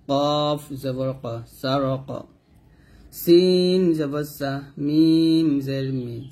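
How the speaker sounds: slow, drawn-out letter names, short syllables after; measured classroom spelling chant; spelling recitation. Shown as a demonstration. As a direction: stretch each letter name, then join the syllables.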